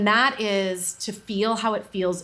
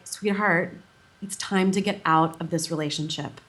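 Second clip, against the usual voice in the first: lower, tender and gentle; loving inner wisdom; 3 semitones lower than usual. Shown as a demonstration. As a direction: soothe her lovingly like a wise friend. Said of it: "from love and compassion".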